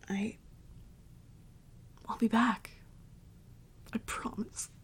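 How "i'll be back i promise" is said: softly reassuring, trailing into near-whisper; hushed, tender parting promise; quiet promise. Acted. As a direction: promise it gently, voice fading away. Quiet parting promise before breaking down.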